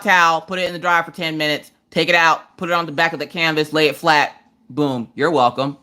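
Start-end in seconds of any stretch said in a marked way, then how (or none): 4.7-5.8 slow, smug boom you're welcome; smug sign-off. Shown as a demonstration. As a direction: drop it like a mic. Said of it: "will end up with".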